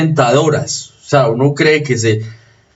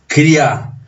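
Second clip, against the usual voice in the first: "Cría" said as criá, weight on the A; stress on final A; 2 semitones higher than usual. Shown as a demonstration. Teacher repeats the example word, stress on the final A of "Cría". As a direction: put the accent of "Cría" on the open vowel. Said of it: "el acento está en la abierta".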